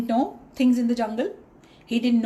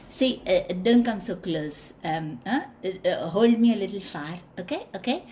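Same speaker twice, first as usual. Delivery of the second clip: mouse voice; 2 semitones lower than usual. Acted. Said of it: "So the mouse said".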